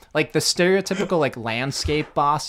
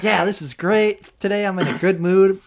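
happy; 5 semitones higher, 3 dB louder than usual. Retold or imitated. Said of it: "I'm all happy".

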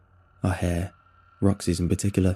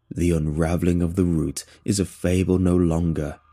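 determined cry; 3 semitones lower than usual. Acted. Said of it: "cries with impassionate determination".

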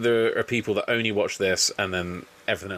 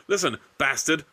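higher-pitched mock wrestler voice; weird voice; 6 semitones higher than usual. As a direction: imitate his odd threat, pitched up. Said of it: "in the weirdest fucking voice".

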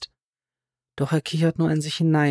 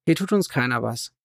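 soothing. A narrator's reading. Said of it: "beschwichtigt Cam seinen Sohn".

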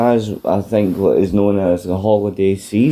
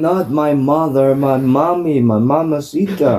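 mock Eddie insisting; 5 semitones higher than usual. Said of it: "Eddie line retold".

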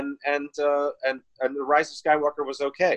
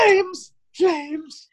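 high, sharp yell of alarm; excited shout; 4 dB louder than usual. Real, not acted. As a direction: call it out in alarm. Shouting at fire.

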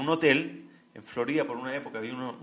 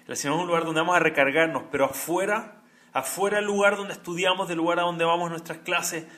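preaching with force; 3 semitones higher, 6 dB louder than usual. Acted. Predica con fuerza.

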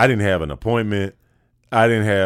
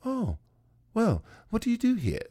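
much higher, softer lady voice; casting lady; 13 semitones higher, 5 dB quieter than usual. Retold or imitated. Casting lady asks what he does here, higher and softer. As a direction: pitch up into a polite lady's curious voice. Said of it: "I said".

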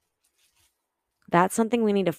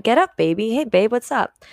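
affectionate; 3 semitones higher than usual. Retold or imitated. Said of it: "like someone's talking to me".

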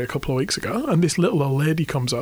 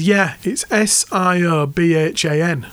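put-on Hull accent; slower than usual. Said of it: "really chavvy Hull accent".

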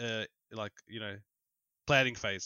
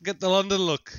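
playful excitement; 7 semitones higher, 6 dB louder than usual. Pretend. Joking about moving to London.

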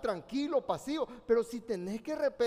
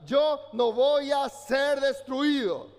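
slow, louder vow for the crowd to repeat; declared out loud; 6 dB louder, slower than usual. Shown as a demonstration. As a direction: proclaim it slowly and loudly, as a vow. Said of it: "Levante su mano y diga".

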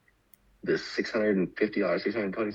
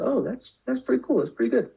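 friend's imagined reply. Retold or imitated. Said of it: "she probably would have said".

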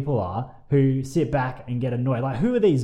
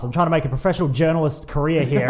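mock angry rant; 3 dB louder than usual. Mock rant about tipping badly.

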